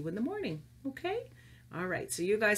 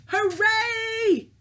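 high, loud hooray; big cheer; 12 semitones higher, 7 dB louder than usual. Acted. Teacher giving the class a great big cheer, loud. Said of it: "give a great big cheer".

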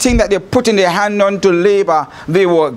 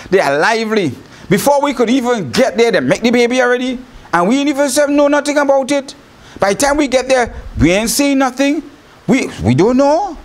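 higher, fast, a light put-on excuse; midwives making excuses; 5 semitones higher, faster than usual. Midwives hurrying to excuse themselves to Pharaoh, higher and fast. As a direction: gabble the excuse up high and quick.

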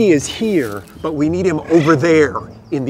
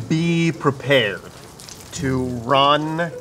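mission log. Acted. Dictating a mission log, deliberate.

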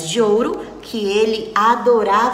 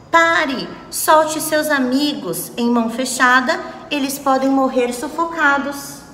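commanding shout; 4 semitones higher than usual. Acted. Other hand orders villain to stop.

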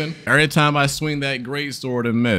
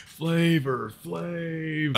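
drawn-out name call; 4 semitones higher, 8 dB quieter, much slower than usual. Pretend. Gamer greeting the rescued NPC, slow stretched name call. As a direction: stretch out the name very slowly.

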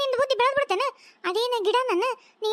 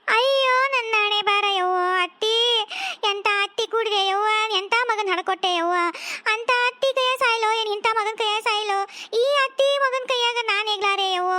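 mock wailing lament. Wife wails about mother-in-law.

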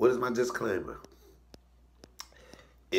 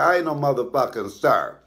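raised, offended retort; imitating mama correcting a caller; mock outrage, pitched up; acted indignant mother; 4 semitones higher, 6 dB louder than usual.

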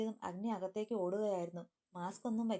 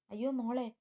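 high, louder cry of alarm; 4 semitones higher, 5 dB louder than usual. Acted. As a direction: call out in shock at the hurt child. Sees daughter bleeding on floor. (ഞെട്ടലോടെയുള്ള നിലവിളി)

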